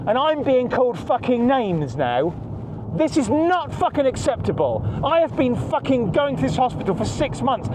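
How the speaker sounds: fed-up complaint, every word bitten off; he's furious at a visitor at his wife's hospital bed and lets it out angrily; real anger. Real, not acted. Angry rant about the hospital visitor.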